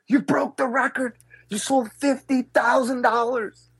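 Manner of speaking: high, slow, thrilled announcement; excited news. Retold or imitated. Manager telling the speaker the record sales, thrilled and slow. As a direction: manager breaking the big news.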